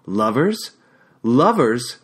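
mocking echo rising to a loud, high jeer; mocking repetition building to a jeering shout; raucous mocking. A narrator's reading. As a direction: throw his word back at him in scorn. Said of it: "she mocked me raucously".

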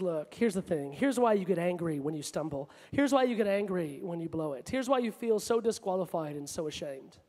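low, soft, patient counsel; gentle explaining. Acted. Preacher voices Jesus explaining to strugglers, quiet and low. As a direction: lay it out quietly, point by point, pitched low.

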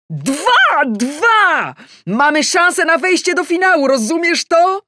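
very high, loud cheering; excited cheering. Acted. Adam cheering the equaliser to his wife, excited. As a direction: yell with joy at the score.

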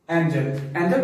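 "एंजल" with a short e, EN-jel; "एंजल" as many learners mispronounce it, EN-jel; common mispronunciation. Shown as a demonstration. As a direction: say "एंजल" with a flat short first vowel. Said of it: "बहुत सारे लोग इसको एंजल बोलते हैं".

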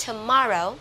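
"tomorrow" with a tiny first vowel, "tuh-MOR-row"; short first o. Shown as a demonstration. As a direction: clip the "to" in "tomorrow". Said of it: "o ngắn này". (đọc "tomorrow", âm o đầu ngắn)

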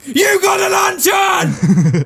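high, loud, slow hammed shout; excited shout. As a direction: yell it like a game fanfare. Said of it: "chill voice".

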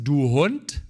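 a hint of a harsh rebuke; mock harsh insult. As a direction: throw the insult at the listener. Quoting Jesus calling you dog.

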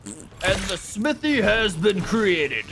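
slow, grand mad scientist voice; evil scientist. Acted. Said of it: "Evil scientist laugh".

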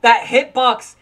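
loud, slow, exasperated complaint; outraged rant. Real, not acted. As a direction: drag it out in disbelief. Ranting about hitbox.

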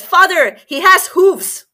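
high, loud and slow exclamation; alarmed exclamation. Acted. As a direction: spell it out, alarmed and obvious. Princess points out hooves.

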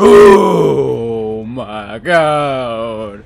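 panicking gamer. Real, not acted. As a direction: scream with relief. Escaping, laughing and crying.

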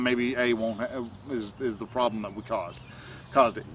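a hint of a coach calmly debriefing yourself; calm and matter-of-fact. Shown as a demonstration. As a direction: state the lesson plainly, without drama. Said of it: "calmly and very firmly and very, uh, in a very matter-of-fact fashion go".

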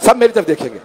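preacher calling out to the mourners. Real, not acted. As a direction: make the whole gathering look at you. Preacher calls on the audience.

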